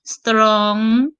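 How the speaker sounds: "Strong" held long with a rising end; drawn-out, rising "Strong" in a single syllable; one-syllable demonstration. Shown as a demonstration. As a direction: stretch "Strong" as one beat, lifting at the end.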